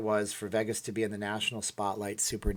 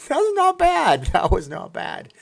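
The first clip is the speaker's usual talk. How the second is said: put-on Austrian accent; 10 semitones higher, 9 dB louder than usual. Pleased with own impression.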